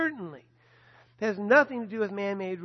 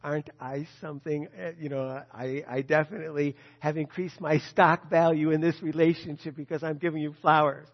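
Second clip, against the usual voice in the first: smug smile; 4 semitones lower, 5 dB louder than usual. Retold or imitated. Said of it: "with a big smile".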